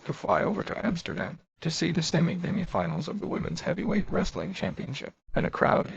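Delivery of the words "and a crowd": grumbling. Acted. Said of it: "he grumbled".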